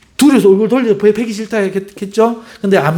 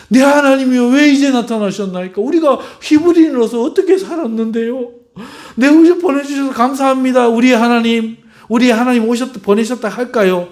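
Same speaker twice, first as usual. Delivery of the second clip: eager Moses; 6 semitones higher than usual. Pretend. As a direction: gush with thanks like an eager Moses. Imagined grateful Moses speaks. (감격한 모세처럼 들뜬 목소리)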